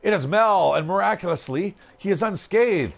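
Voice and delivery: storyteller announcing a miraculous return; dramatic story narration. A narrator's reading. Game player revealing Mel survived the fire, dramatic narration.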